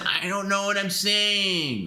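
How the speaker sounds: high, slow mock Perry whine; imitating Perry. Host mimics Perry claiming he doesn't know. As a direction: drag it out like a dazed old friend. Quoting Perry's confused excuse.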